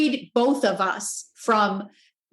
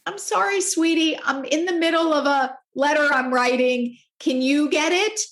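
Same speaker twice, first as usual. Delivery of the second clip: higher-pitched, apologetic mom voice; gentle refusal; 4 semitones higher than usual. Retold or imitated. Mom to her kids asking for water, gently apologetic. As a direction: gently turn down the request with a sweet, high lilt. Mother gently declining child's request.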